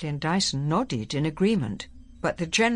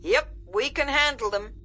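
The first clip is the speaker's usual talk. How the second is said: higher-pitched, confident general; 8 semitones higher than usual. A narrator's reading. General assuring the secretary he can cope, confident. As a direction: answer with a commander's assurance. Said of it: "sounded as confident as ever".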